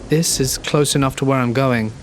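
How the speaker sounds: nervous, trembling request; shaky voice. Acted. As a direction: ask with a shaking voice. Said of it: "in an equally shaky voice".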